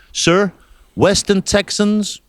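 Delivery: slow, hammed-up Texan; bad Texan accent. Texan shop man correcting a customer about tucked-in jeans, bad Texan accent. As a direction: attempt a Texan drawl, badly. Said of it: "That's a bad Texan accent".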